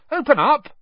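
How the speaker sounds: high, loud shout; Harry yelling for Hagrid to open up. A narrator's reading. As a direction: bang and yell at the door. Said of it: "Harry shouted, pounding on the door".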